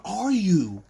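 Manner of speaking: climbing high and loud in disbelief; incredulous protest. Acted. To the alien owners about Zoe, a high outraged squeal. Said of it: "you're sitting here going".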